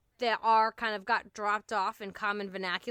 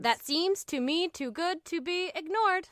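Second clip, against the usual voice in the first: raised pitch, beat on every second syllable of "That seems to me too good to be ignored"; iambic pentameter; 5 semitones higher than usual. Shown as a demonstration. Host showing off verse, iambic beat. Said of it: "That's some iambic pentameter for you".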